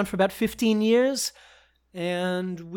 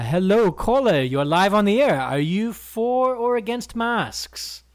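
smooth radio host; 3 semitones higher, 4 dB louder, slower than usual. Acted. Host greeting caller on radio.

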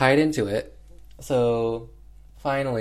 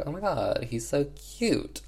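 put-on cooing over baby; 5 semitones higher than usual. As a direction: coo like you've just met the cutest baby. Maria meets the baby.

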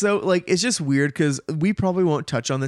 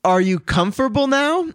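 louder, higher mock Southern accent; southern drawl; 9 semitones higher, 5 dB louder than usual. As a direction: put on a lifted southern twang. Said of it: "Dorothy gets a southern drawl".

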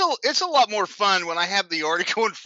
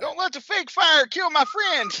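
mock sheriff voice; 10 semitones higher than usual. Co-host voicing sheriff.

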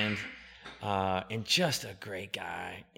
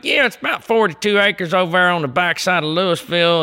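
Cooter Scoots hick voice; 10 semitones higher, 18 dB louder than usual. Acted. Prank-calling a land investor in an exaggerated Southern accent. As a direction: play a rural Southern landowner in a thick Southern accent. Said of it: "I'm like".

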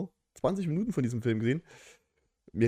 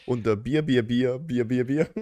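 chipper 1950s ad; 5 dB louder, slower than usual. Pretend. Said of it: "Was ist denn das für eine krude, lange Telefonnummer".

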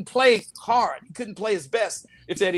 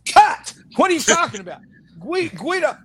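loud, higher retold yell at an actor; director yelling cut; 4 semitones higher, 5 dB louder than usual. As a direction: bark it like an angry director stopping the take. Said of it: "and Ron goes".

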